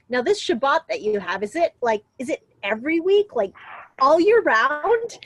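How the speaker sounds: half-mocking the manager's naive amazement; puzzled manager. Quoting manager's puzzled question.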